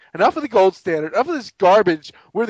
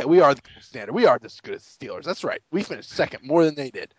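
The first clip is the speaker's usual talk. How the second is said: mock proud fan; 6 semitones lower, 4 dB quieter than usual. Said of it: "They'll be like".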